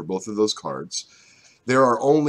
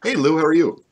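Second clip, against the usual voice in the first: movie trailer voice; 8 semitones higher, 7 dB louder than usual. Real, not acted. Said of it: "your voice sounded great there off screen".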